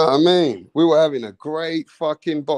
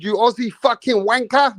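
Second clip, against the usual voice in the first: higher mock insult; mock yell; 7 semitones higher than usual. Host jokingly inventing an insult, mock yell. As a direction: toss off a teasing fake insult. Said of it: "He said".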